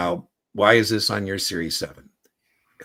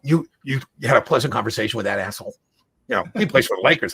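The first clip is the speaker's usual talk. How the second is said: outraged fan; 4 semitones higher, 4 dB louder, faster than usual. Retold or imitated. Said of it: "He goes".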